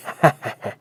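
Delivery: short, hearty acted chuckle; laugh, pleased with yourself; self-satisfied ha-ha-ha; boastful laugh. Father-in-law laughs after boasting.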